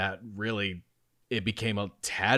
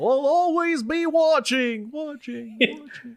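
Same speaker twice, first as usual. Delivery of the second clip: very high, loud, cartoonish voice; 6 dB louder than usual. Joking about watching over the group: Goofy voice. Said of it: "It's turning more into Goofy at this point".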